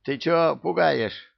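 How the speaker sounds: slow, high, angry. A narrator's reading. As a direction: snap at him angrily. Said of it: "разозлился он".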